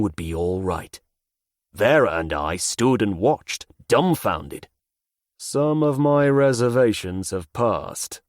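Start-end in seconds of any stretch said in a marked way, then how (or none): 5.4-8.2 dry monotone delivery. Acted. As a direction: say it in a deadpan monotone. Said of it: "I said in a monotone voice".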